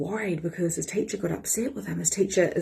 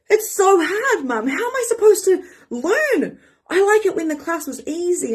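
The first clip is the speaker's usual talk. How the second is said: put-on much higher, whiny child voice; imitating her son; 11 semitones higher, 3 dB louder than usual. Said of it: "And he goes".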